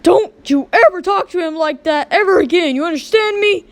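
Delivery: loud, rising reprimand; a parent scolding her child for his rude phone call; stern scolding. Acted. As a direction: lay down the law to the kid.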